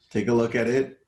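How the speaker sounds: ordinary delivery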